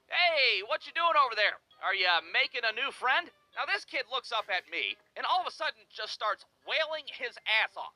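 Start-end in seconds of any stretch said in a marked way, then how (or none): 0.1-3.3 put-on high, breezy call out to a kid; nonchalant call. Neighbor calling out to the kid across the yard, breezy and high. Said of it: "I yell out to this kid nonchalantly".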